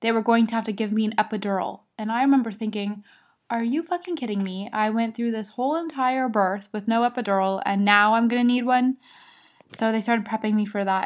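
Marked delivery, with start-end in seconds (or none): 3.5-9.0 retold indignation. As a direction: protest in mock disbelief, building to the end. Retold indignant thought about needing epidural.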